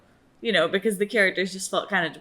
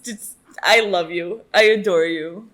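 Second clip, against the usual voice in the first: louder, fond excited gushing; adoring gush; 6 dB louder, slower than usual. Real, not acted. Fan declaring love for Darla, loud gushing. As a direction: pour out the love.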